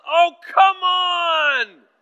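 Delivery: a father reenacting his own frustrated outburst; reenacted angry yell. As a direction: burst out in exasperation at full volume. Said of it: "I burst out and I yelled".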